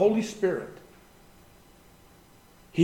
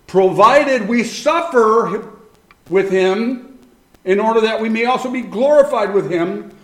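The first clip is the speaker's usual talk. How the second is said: preaching at full force; 4 semitones higher, 5 dB louder than usual. Acted. Preaching the Romans passage.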